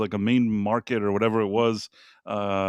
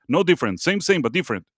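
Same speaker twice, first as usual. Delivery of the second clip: put-on Thai vendor accent; faster than usual.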